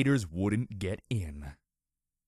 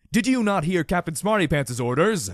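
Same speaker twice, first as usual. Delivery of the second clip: loud, higher stern scolding; loud reprimand of a giggling soldier; stern rebuke; 6 semitones higher, 7 dB louder than usual. A narrator's reading. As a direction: scold the private like a general. General scolds the private.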